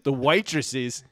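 lightly put-on Australian accent; Geordie Thorpe. Friend reminiscing about bar nights, in an Australian accent. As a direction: tell it as an Australian bloke. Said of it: "I would do the Australian accent".

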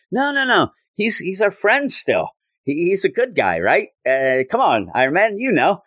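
high, mock-earnest protest; hammed-up pleading no, no; pleading Steve. Steve defending Namor, retold.

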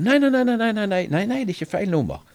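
bursting in, eager not to lose her; excited insistence. Retold or imitated. (ivrig og høyt: nei, nei, nei)

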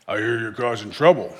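mock tough big brother voice; playing the tough big brother, warning off a bully; manly big brother voice. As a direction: puff up like the protective older brother. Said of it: "with my manly voice".

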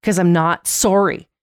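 mild mock outburst, insistent; acted-out exasperated refusal, building slightly; imitating someone losing it. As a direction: retell a stubborn refusal with growing emphasis. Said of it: "And she, like, loses it".

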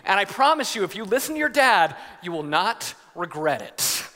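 lightly hammed-up rousing speech; a hint of an orator, emphatic phrases slowing to the end; dad playing the inspirational statesman; Teddy Roosevelt. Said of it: "I was like Teddy Roosevelt".

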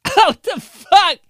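high, slow squeaky what-the; a hammed-up startled gut voice; body's confused reaction. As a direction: play your stomach going what the. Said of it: "your body's like".

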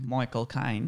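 Cockney accent, vowel of "Caine" stretched toward "Kine"; Michael Caine. Shown as a demonstration. Guest naming his favourite actor, in imitated Cockney accent. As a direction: say the name in a light Cockney accent. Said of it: "that's a good Michael Caine impression".

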